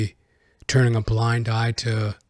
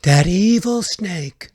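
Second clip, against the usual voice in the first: mock villain line; 7 semitones higher, 4 dB louder, much slower than usual. Mock dramatic insult.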